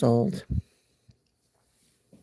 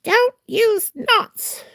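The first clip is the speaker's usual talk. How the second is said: high, slow mocking voice; high mocking quote of other people; 3 dB louder, much slower than usual. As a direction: mimic them in a prissy high drawl. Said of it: "a lot of people say".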